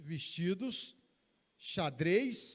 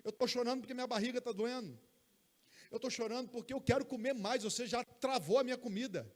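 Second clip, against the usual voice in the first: put-on higher, quick childlike explaining; baby talking; 6 semitones higher than usual. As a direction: pretend the baby can talk. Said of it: "Se ele soubesse falar".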